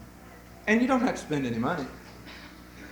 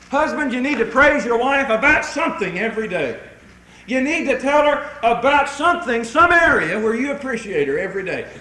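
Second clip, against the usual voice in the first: loud exhortation with punched key words; emphatic preaching; 3 semitones higher, 6 dB louder than usual. Real, not acted. Preacher exhorting husbands to praise wives, emphatic. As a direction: urge it on them from the pulpit.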